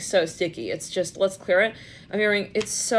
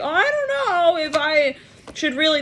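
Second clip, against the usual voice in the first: hesitant quote; 8 semitones higher, 4 dB louder than usual. Retold or imitated. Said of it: "it's like".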